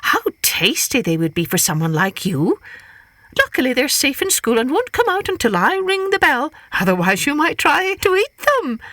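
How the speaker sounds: high, sly teasing hare; high tempting Hare voice. Acted. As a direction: tempt him sweetly as Hare.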